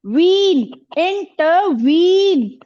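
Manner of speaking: इंटरवीन slowly, with stress on the final वीन; stress on final syllable. Shown as a demonstration. Teacher shows pupils where stress falls, stress on वीन. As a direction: lean on वीन at the end of इंटरवीन. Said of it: "stress लगाना पड़ रहा है".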